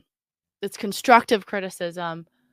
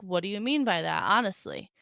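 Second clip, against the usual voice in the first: calm and sincere; 5 dB quieter than usual. Shown as a demonstration. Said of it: "the best thing to do is".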